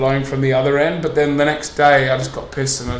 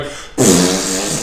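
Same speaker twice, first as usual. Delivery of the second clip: imitated didgeridoo noise; 7 semitones lower than usual. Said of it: "all he was doing was going".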